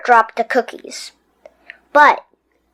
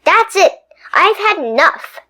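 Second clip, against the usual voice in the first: fed up; 7 semitones higher than usual. Acted. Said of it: "cried Stuart".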